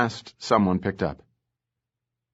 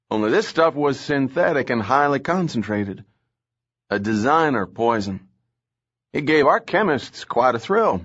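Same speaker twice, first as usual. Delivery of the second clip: a raised, lively cop voice relishing the grim details; gruff Southern lieutenant; 4 semitones higher than usual. Acted. Lieutenant Casson briefs the captain about the poison, animated. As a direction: tell it like a jaded cop with a gory story.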